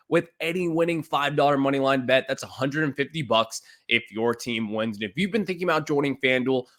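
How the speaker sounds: upbeat sponsor read in the host's voice. Acted. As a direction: sell it like a radio spot.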